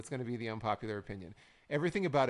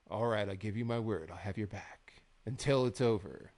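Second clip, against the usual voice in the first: slightly lowered imitation wrestler voice; measured mock-solemn vow with pauses; slow talking; 4 semitones lower than usual. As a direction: imitate a self-serious promo. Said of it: "slow talking back and forth".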